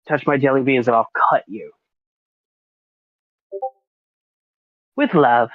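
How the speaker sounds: mock threat. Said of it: "See what I said there".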